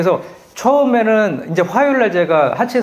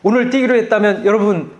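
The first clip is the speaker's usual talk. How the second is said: high, bright-cheered coach voice, louder; cheery running coach; 6 semitones higher, 4 dB louder than usual. Retold or imitated. Running app coach cheering runners, mock cheerful and high. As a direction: mimic an upbeat app coach cheering you on. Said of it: "아이린 코치의 음성 가이드".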